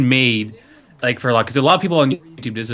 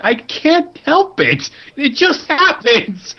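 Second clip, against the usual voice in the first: high, slow, silly voice; goofy character voice; 4 dB louder, much slower than usual. Retold or imitated. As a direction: play it innocent and dopey. Voicing Chris the bicyclist killer.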